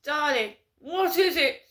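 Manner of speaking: high, loud, plummy posh disgust; Camilla impression. Mocking Camilla recoiling from Diana, posh shriek. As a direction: squeal it like a horrified royal. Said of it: "and Camilla going".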